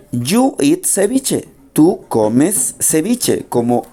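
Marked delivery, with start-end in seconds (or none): 0.1-1.5 slow model sentence. Shown as a demonstration.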